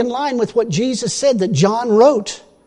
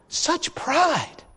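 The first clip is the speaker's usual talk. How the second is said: soft, hushed, lowered disdain; quiet disgust; 6 semitones higher, 8 dB quieter than usual. Real, not acted. Preacher condemning the woman's pride, hushed disgust. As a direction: say it under your breath, appalled.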